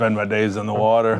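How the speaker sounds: put-on Viking character voice. On a show, voicing a character as the other host prompts, slightly gravelly Viking voice. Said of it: "a little Viking".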